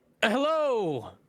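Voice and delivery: high-pitched, loud shout. Stepping forward in character and calling out to a crowd: shouting to a crowd. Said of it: "we will shout out to the crowd".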